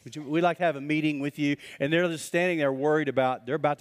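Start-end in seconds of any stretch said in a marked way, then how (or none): 0.0-1.6 overly polite request. Retold or imitated. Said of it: "So they're like".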